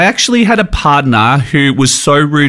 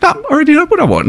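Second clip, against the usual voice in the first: much higher, fast insistent customer; impatient customer; 12 semitones higher, much faster than usual. Retold or imitated. A brunch customer cutting off the waiter, high and fast insistent. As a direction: push it out high and quick, impatient.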